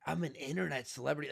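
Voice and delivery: mild quick deadpan read; flat confused reading; normie reading. Retold or imitated. Imagining a normie reading the line, mildly deadpan. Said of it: "a normie reading that going".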